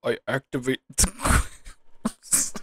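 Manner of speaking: slow, dramatic duel announcement; Yugi voice. Pretend. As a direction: play it like a card duelist declaring a move. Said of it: "Yugi voices".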